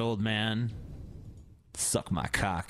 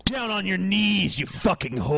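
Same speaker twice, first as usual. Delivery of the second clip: aggressive macho voice; 2 semitones higher than usual. Pretend. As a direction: bark it like a sleazy alpha. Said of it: "This is how you fucking talk".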